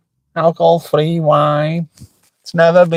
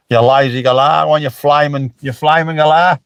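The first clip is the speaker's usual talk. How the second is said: Alf Stewart. Retold or imitated. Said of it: "Bit of Alf Stewart".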